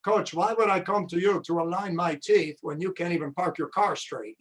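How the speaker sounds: deadpan comeback in a put-on Romanian accent; Tony's Romanian accent. Coach retelling a student's cheeky comeback, in a Romanian accent. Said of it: "I'll do it in his Romanian accent".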